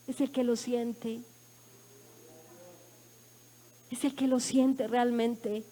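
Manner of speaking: quietly heartfelt, slowing right down; moved, hushed. Real, not acted. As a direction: drop low and slow, letting it sink in. Moved aside after a hard memory.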